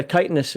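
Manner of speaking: chitinous said KITE-in-us; long i in chitinous; dictionary pronunciation. Shown as a demonstration. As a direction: say chitinous with a hard K. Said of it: "it says right there".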